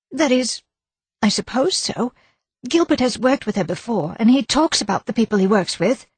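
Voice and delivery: insist, worried and defensive; nervous wife. A narrator's reading. Wife insisting to the inspector she saw nobody. Mrs Gower voiced higher.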